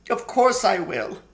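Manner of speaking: high, anxious faun voice; a fretful, sorrowful faun. A narrator's reading. Tumnus relenting.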